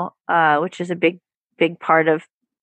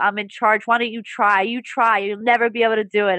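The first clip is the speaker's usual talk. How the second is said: defiant inner critic, pitched up, mildly voiced; mock self-hating voice; 3 semitones higher than usual. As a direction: lightly play a sneering gremlin who won't let go. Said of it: "the self-hating voice is like".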